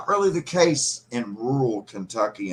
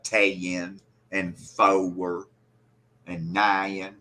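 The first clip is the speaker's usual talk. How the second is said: Southern drawl; 3 semitones lower, much slower than usual. Shown as a demonstration. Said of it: "Southern drawl with more of that double".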